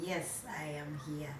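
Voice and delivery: hushed whisper to the divine; soft whispered words to God; whispered prayer. Retold or imitated. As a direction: breathe it as a private prayer. Some few words I said to myself.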